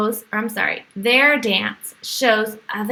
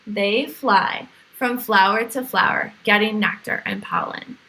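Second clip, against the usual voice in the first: put-on bright, lively storybook read for kids; reading to children. A narrator's reading. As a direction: read it like a picture book to little ones. Reads picture book to children.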